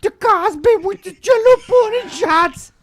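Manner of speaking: lightly put-on celebrity impression; a hint of a TV comedian's voice; Bill Cosby. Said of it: "The Dival doing the Bill Cosby voice".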